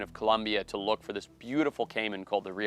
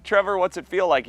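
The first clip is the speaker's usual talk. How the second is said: high, loud retold urgency; acted panic; 9 semitones higher, 7 dB louder than usual. Speaker questions suffering engineer, high acted panicked plea. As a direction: ask it in mock alarm, voice pitched up.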